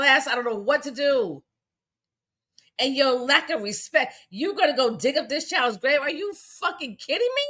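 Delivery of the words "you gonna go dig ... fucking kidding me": outraged disbelief. Real, not acted. Outraged at grave digging.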